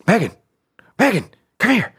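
high-pitched hammed-up panic, breaking into laughter; mock freaked out. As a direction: imitate a spooked husband calling for help. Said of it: "I'm really freaked out right now".

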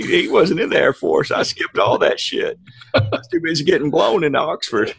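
lightly put-on Southern politician voice; Bill Clinton. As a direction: do a roguish ex-president impression. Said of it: "Your, your Bill is".

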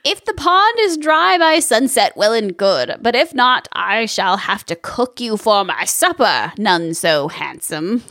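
lightly voiced menacing witch. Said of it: "A plus witch voice".

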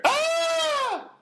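put-on high shrill yelp of a choking old lady; a sudden mock cry from the next room; mock scream. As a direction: imitate a startled high scream. Grandma choking, heard yelling.

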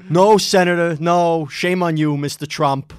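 loud indignant scolding; mock scolding. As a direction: shame him from the podium. Acting out a hearing scolding.

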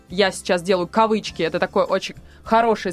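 ordinary delivery

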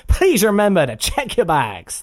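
slow, calm tannoy read; a quick sample of an airport announcement; slow airport announcer line. Retold or imitated. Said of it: "'cause they're not looking for".

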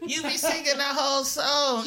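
laughing, high-pitched complaint. Real, not acted. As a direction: laugh through the words. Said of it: "laughing complaint".

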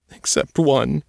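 put-on high, small scared girl's voice; a haunted girl answering in fear; Trisha, frightened girl. A narrator's reading.

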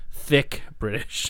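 THICK drawn out, slow and crisp; emphatic reminder. Real, not acted. Co-host insisting on the accent, emphatic. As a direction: lean slowly on "Thick".

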